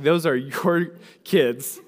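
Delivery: slow, deliberate parent telling the spouse off; a lightly voiced exasperated parent, drawn out; parent's stern line. Parent handing the kids' mess to the spouse, slow and pointed. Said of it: "you're kind of like".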